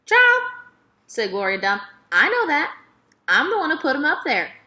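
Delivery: put-on high, loud old woman owning up; firm old woman confessing; old woman's voice. A narrator's reading. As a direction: say it straight out like an old woman with no shame. Gloria admits her drinking.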